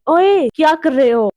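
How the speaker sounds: startled, understated shout; mild mock yell. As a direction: challenge someone caught snooping. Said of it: "मैं चिल्लाई". (हल्की सी चिल्लाहट)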